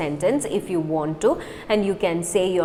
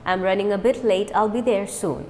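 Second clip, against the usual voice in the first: quick natural speed; fast; faster than usual. Shown as a demonstration. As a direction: say it briskly. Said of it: "Now fast".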